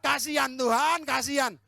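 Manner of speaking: loud, high, slow whining lament; hammed-up cry of poor me; self-pitying wail. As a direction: wail "Kasihan Tuhan" in mock self-pity. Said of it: "meratapi diri sendiri".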